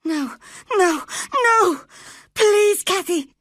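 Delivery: high, loud terrified screaming; wild scream. A narrator's reading. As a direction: scream in panic, clinging to her. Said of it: "screamed Linton wildly".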